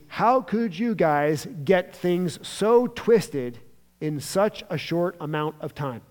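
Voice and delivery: slow, incredulous frustrated question. Acted. Jesus asking how they got so twisted, mildly frustrated. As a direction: weigh each word in mild frustration. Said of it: "Jesus is frustrated at this point".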